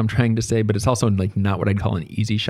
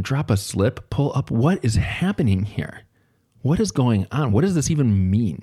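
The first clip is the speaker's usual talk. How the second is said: mock-baffled inner monologue, slightly raised; acted bafflement; 4 semitones higher than usual. Teacher privately puzzling over students' slang, lightly acted bafflement. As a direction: puzzle over each strange phrase in disbelief. Acting out his own baffled thoughts.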